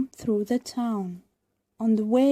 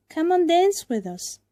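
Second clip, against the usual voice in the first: loud, higher taunting shout; 8 semitones higher, 6 dB louder than usual. A narrator's reading. Puppets taunting Pinocchio, higher loud call. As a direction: call him over, teasing loudly. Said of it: "they shouted".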